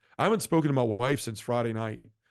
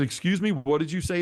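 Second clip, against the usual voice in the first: higher-pitched retold disbelief; startled request to repeat it; taken aback; 5 semitones higher than usual. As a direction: replay being caught off guard. Retold startled reply to priest.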